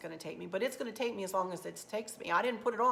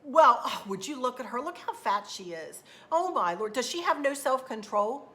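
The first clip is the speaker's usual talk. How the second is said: gossiping onlookers; 4 semitones higher, 5 dB louder than usual. Retold or imitated. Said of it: "things I've heard behind my back".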